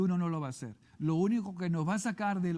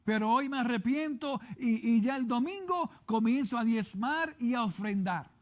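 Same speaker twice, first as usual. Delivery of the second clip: penitent believer praying; 4 semitones higher than usual. Acted. Penitent believer confessing to God.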